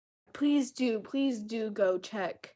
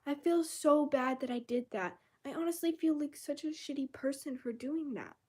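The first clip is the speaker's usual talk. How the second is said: mock self-pity; 5 semitones higher than usual. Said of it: "Don't go".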